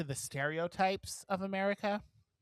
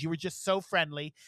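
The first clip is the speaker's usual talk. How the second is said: a light French accent impression; 2 semitones lower than usual. French customer praising shop worker's friendliness, French accent. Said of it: "This is my French accent".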